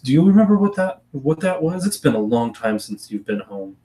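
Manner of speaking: a genteel aunt explaining family matters. Acted. To her returning niece, a lightly voiced genteel aunt.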